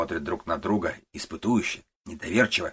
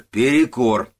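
louder, higher repeated call; shout; 5 semitones higher, 10 dB louder, slower than usual. Acted. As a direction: yell it again, harder. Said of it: "кричит старый Куба". (ещё громче, настойчивый крик)

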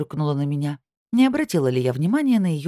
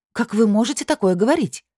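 much higher, shrill-edged indignation; flaring up; 8 semitones higher, 4 dB louder than usual. A narrator's reading. Анна Андреевна flares at Белоконь's hint, high and indignant. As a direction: shoot up in offended pitch. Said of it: "взвилась Анна Андреевна".

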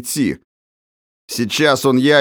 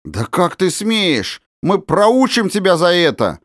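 threatening; 8 semitones higher than usual. A narrator's reading. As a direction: threaten the boy. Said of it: "угрожающие голоса". (угрожающе)

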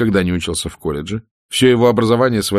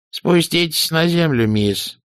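high, biting put-down; cutting old dame; 10 semitones higher, slower than usual. A narrator's reading. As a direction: sharply cut her down, grande dame style. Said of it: "колко осадила её старуха".

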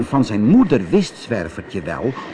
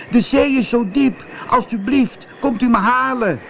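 high, frightened little-cat voice; calling cat; 12 semitones higher than usual. Acted. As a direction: call back that you daren't, very high. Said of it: "riep Zwervertje". (bang roepende kat, hoge stem)

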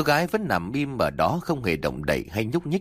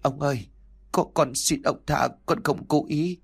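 stammering plea; 4 semitones higher than usual. Acted. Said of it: "lắp bắp van xin".

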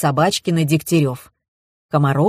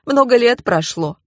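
high, mildly tearful voice; 7 semitones higher than usual. A narrator's reading. Mother explains her silence about the death, tearful. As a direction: plead it with a touch of tears. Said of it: "всхлипнула Комарова".

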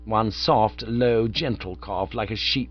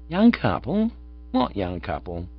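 startled; 3 semitones lower than usual. A narrator's reading. Bingo stunned by news.

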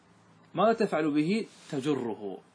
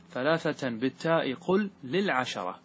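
slow, measured chant of the verse line; verse recitation; slower than usual. Shown as a demonstration. Teacher chanting the grammar verse to his class, slow and measured. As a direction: intone the verse slowly for students.

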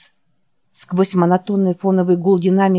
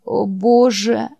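groan; 3 semitones higher, slower than usual. Acted. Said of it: "простонал Джек".

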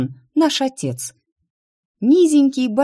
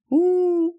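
high sinking groan; deflated groan; 13 semitones higher than usual. A narrator's reading. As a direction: sag with disappointment. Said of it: "скисла я".

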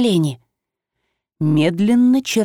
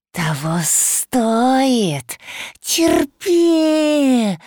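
shrieking creature; 5 semitones higher, much slower than usual. Acted. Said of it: "визжало оно".

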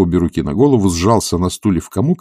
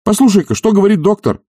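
higher, louder indignant reproach; reproachful master; 13 semitones higher, 6 dB louder than usual. Acted. Oblomov reproaching Zakhar, loud and indignant. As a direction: scold the servant with wounded pride.

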